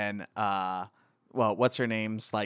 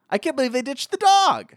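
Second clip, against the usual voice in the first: outraged disbelief; 7 dB louder than usual. Retold or imitated. Outraged retelling of ditched dog.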